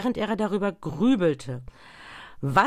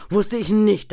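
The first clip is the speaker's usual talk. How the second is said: lauter, höher ansetzender Klageruf; klagender Ausruf; 5 semitones higher, 8 dB louder than usual. A narrator's reading. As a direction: ruf die Reue laut hinaus. Geist klagt laut. (das Gespenst klagt laut auf)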